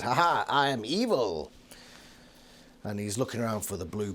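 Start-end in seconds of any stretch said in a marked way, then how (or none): 0.0-1.5 mock evil gloat, tongue in cheek; Visser three. Recapping Visser three barging in, a lightly hammed villain gloat. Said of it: "and he says".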